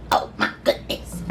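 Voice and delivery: low, breath-only exclamation; awed whisper. Real, not acted. Cook marvelling at her soup, awed whisper. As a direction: whisper it in amazement.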